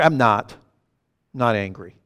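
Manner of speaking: low, grumpy retold denial; irritable denial. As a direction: imitate a husband stubbornly denying it. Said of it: "angry and irritable and ornery".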